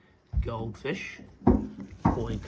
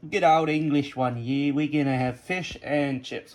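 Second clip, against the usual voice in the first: hammed-up English dialect; badly faked English accent; put-on English accent. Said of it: "Apologies for the English accent".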